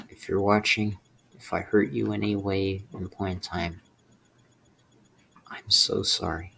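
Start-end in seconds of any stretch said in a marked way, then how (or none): 5.5-6.5 choked apology. Real, not acted. To his mom watching the video, a choked whispered apology. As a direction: barely get the words out, near tears.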